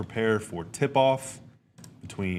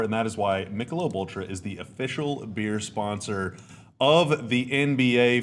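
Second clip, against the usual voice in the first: ad read. Acted. Host reading the sponsor spot to viewers, ad-read voice. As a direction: sell the beer like a broadcast spot.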